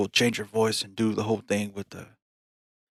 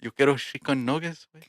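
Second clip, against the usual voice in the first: higher-pitched mock Mexican accent; 4 semitones higher than usual. Ordering food with a buddy, playful Mexican accent. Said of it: "We got different accents now".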